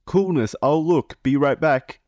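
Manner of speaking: put-on high, slow, sugary teen girl; a lightly voiced teen girl thanking him sweetly; sweet decoy voice. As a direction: coo it like a flattered young girl. Reading the decoy's chat.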